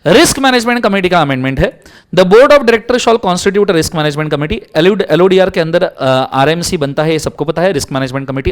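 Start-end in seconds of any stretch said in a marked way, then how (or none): 2.1-5.0 teacher reading law aloud; slow legal read. Acted. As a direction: read the clause out slowly and deliberately. Reading statute text.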